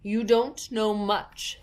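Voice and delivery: lightly voiced scornful Duchess; rude Duchess. A narrator's reading. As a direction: sneer at her ignorance. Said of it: "said the Duchess".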